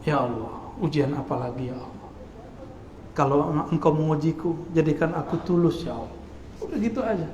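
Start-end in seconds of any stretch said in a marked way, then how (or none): 0.0-6.2 soft complaining prayer. Retold or imitated. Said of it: "Mengeluh itu kepada Allah".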